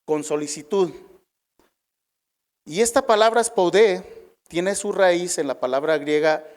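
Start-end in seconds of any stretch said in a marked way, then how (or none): 3.4-4.2 spoudé with the accent on the last syllable; stress on final E. Shown as a demonstration. Preacher repeating the Greek term to the congregation, spoudé stressed on the final E. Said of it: "con acento en la E".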